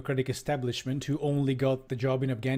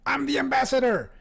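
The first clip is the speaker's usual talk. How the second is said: very high, louder hammed-up shriek; crying out; 12 semitones higher, 5 dB louder than usual. Ambassador pulls rank at the crowded helicopter, high-pitched yell. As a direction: screech it with outraged self-importance. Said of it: "he cried".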